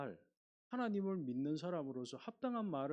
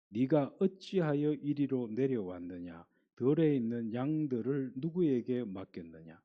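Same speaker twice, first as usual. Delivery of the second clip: loud, slow, scolding reading; a preacher voicing an angry, contemptuous older brother; 3 semitones lower, 5 dB louder than usual. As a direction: read it as the big brother lashing out at his little brother. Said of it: "큰형이 막내 동생을 향해서 막 화를 내면서".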